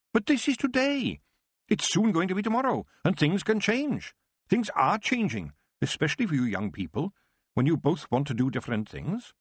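high, slowing on key lines; old witch advising a tearful Tiffany, high voice. Acted. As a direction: counsel her kindly but firmly.

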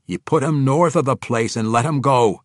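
high, loud dwarvish order; dwarf ordering. A narrator's reading. Dwarf king ordering mercy for the stragglers, loud and firm. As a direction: overrule them as a dwarf king. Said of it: "he ordered".

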